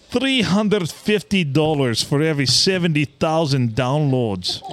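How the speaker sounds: mock Russian scammer reading his reply; terrible Russian accent. Host reading the spammer's reply in a terrible Russian accent. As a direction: ham up the broken English. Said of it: "read that in a terrible Russian accent".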